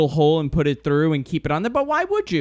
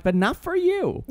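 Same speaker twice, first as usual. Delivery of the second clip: laughing jab; 12 semitones higher than usual. Retold or imitated. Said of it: "I'm like".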